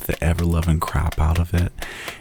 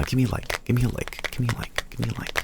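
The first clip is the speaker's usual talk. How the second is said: playful pleading; 6 semitones higher, 5 dB quieter, much faster than usual. Pretend. Playful repeated plea for likes.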